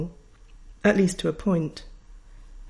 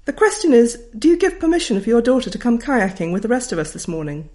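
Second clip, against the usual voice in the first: higher, hearty and bossy; teacher asking a parent for permission; brisk teacher; 4 semitones higher, 4 dB louder than usual. Retold or imitated. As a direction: briskly put the question. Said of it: "said Missus Kelvin".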